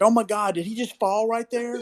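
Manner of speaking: high-pitched mock astonishment with laughter; imitated amused disbelief. Son laughing at dad's fall on flat ground, imitated high disbelief. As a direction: retell it high, tickled and incredulous. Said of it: "him laughing hysterically".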